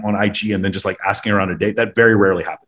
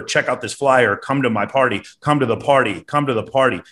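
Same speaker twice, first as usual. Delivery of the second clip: mild pushy promoter; slower than usual. Retold or imitated. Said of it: "that's creepy".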